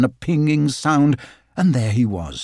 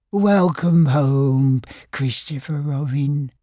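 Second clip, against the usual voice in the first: warm welcome; slower than usual. Acted. Pooh greets with bear hug.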